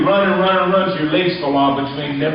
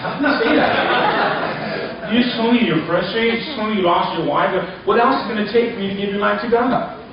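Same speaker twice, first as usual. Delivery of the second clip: incredulous retort; 4 semitones higher than usual. Retold or imitated. Preacher retells scolding the man.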